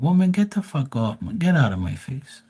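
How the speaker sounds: exaggerated boyfriend telling her to back off; mock disgusted shove-off. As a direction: push her off, half yelling. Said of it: "pushing away ex".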